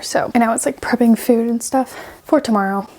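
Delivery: slightly out of breath, talking between breaths. Real, not acted. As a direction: catch your breath while talking. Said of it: "I'm also out of breath".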